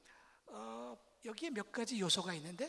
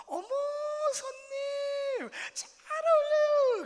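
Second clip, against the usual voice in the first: much higher, stretched slowly, gushing; high excited praise; 11 dB louder, slower than usual. Shown as a demonstration. Shoe clerk flattering a customer, high and gushing. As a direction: gush over the customer, pitched way up. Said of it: "억양을 좀 이렇게 높게 했대요".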